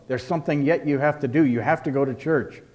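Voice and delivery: mock insistent lecturing; used as a club. Imitating those who push church as law, mock insistent tone. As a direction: press it on them like a rule. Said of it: "and was used as a club".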